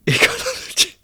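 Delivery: squeaky high attempt through real laughter; laughing. Real, not acted. Streamer failing to say a hard word, laughing. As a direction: try the word while helplessly laughing. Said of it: "I'm laughing".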